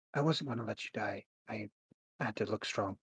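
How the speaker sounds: hushed, very quiet half-whisper. Voicing a character who comes up beside Mordecai: half-whispering. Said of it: "And she whispers".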